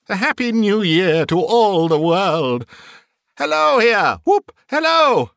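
high-pitched, giggly jubilant cries; giddy elation. A narrator's reading. Scrooge greets all the world, giddy and exultant. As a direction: build from laughing delight to whooping hellos. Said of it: "laughing and crying in the same breath".

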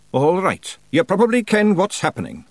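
high Scots Feegle voice; Feegle chieftain. A narrator's reading. Rob addressing the blue and red audience, high Scots voice.

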